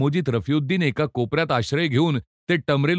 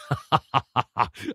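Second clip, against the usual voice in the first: satisfied laughter; 2 semitones lower than usual. A narrator's reading. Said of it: "पोट धरधरून समाधानानं स्वतःशी हसू लागला".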